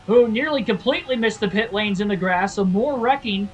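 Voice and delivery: high, loud play-by-play of a wreck; excited race commentary. Acted. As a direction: shout the crash call like a TV announcer. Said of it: "I sound like the announcer".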